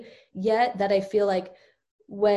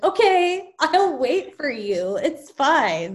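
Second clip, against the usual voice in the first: mock sweet toddler; 6 semitones higher, 4 dB louder, slower than usual. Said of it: "their nature isn't".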